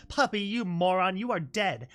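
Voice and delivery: loud angry yell; shouting. Acted. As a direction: yell it at her in anger. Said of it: "pressed her beak against Puppy's helmet".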